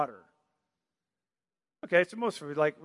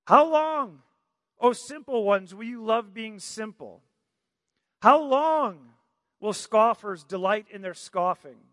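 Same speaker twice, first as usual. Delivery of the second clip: Wisdom crying out; 3 semitones higher, 4 dB louder than usual. Acted. Lady Wisdom calling out to the simple ones. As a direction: cry out like Lady Wisdom in the street. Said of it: "she speaks".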